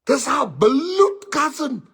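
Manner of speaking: high slow whimpering bloed cousin; mock crying plea. Friend repeats lie to teller, mock tearful whine. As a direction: whine "This our bloed cousin" slowly like near tears.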